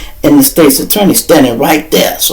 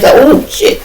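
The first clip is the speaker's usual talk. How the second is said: high unvoiced whisper with a laugh; whispered oh shit. Cop caught chasing to court, whispering in dismay. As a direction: breathe it out like a busted kid.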